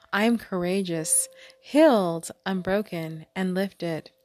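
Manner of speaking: lifted opening word, then measured phrases; affirmation recitation. Acted. Host answering the hurt with healing affirmations, deliberate recitation. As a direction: declare each quality separately, with pauses.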